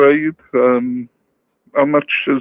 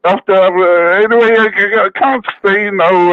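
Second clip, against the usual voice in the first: put-on Irish accent; 3 semitones higher than usual. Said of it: "Irish O'Rourke".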